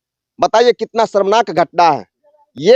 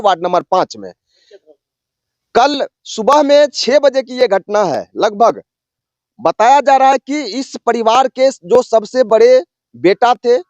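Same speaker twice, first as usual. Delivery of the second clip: field reporter's formal delivery; news report; 3 semitones higher than usual. Real, not acted. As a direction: report it to camera in measured phrases.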